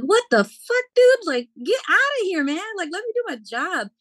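high, indignant retold protest; outraged protest. To the crew chief taking her job, high outraged protest. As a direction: shoot it back in disbelief. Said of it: "I'm like".

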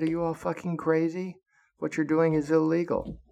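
high, outraged retold shout; outraged yell. Yelling up at officers, retold.

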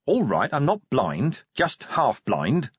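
mildly irritated snap; snapped retort. Acted. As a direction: answer testily, drawing it out. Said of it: "Vimes snapped".

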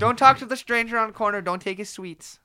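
put-on British accent. Mock British parent warning.

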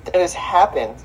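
muffled behind a hand; talking through covered mouth; hand over mouth. Real, not acted. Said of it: "Why do you have your hand over your mouth?".

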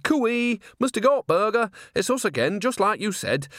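high, chirpy call into the room; sing-song cooey. A narrator's reading. Nanny bursting in on the cornered publisher, sing-song and high. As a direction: greet him far too cheerily.

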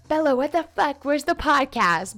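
playfully berate, as a pestering fan would; mock badgering. Podcaster voicing listeners demanding the promised podcast, mock angry badgering. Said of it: "I give you acceptance to badger me".

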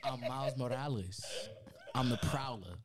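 lightly put-on New York Puerto Rican accent; a touch of hood, Spanish-tinged New York accent; Miles Morales. Friend imitating the movie character, slight New York Puerto Rican accent. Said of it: "hear a little more of the Spanish".

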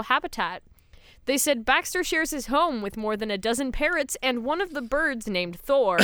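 lively read-aloud news report. Acted. Host reading co-hosts a kangaroo story, news read. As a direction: read it out like a newsreader.

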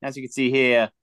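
put-on playful Wild West cowboy accent. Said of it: "talking like a cowboy accent right now".

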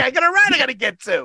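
high fast shout of "I got a ride I gotta get to"; retold yelling. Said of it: "I start yelling at my passenger".

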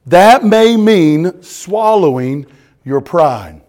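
loud, deliberate pulpit reading; emphatic sermon reading. Real, not acted. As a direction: read it out forcefully to a congregation. Reads quote to congregation forcefully.

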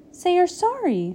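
high-pitched, offended demand; a touch of childish indignation; indignant demand. A narrator's reading. Frog demands apology in quarrel.

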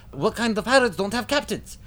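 very high, squealing stooge echo; Curly, comic stooge. Acted. Curly turning to Mo, very high stooge squeal. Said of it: "Curly looks to Mo".

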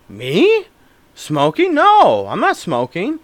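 hammed-up innocent questioning; mock-innocent denial. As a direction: play the wrongly accused kid. Acting teenage denial to dad.

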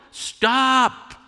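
sharp, high yell of Stop; yelled warning. Shown as a demonstration. Preacher demonstrating a yell to a child on a bike. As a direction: shout it to stop a child near the road. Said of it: "So you yell".

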